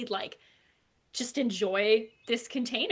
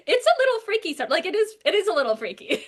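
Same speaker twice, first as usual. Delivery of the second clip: laughing; 9 semitones higher, 6 dB louder than usual. Real, not acted. Laughing about the puppet.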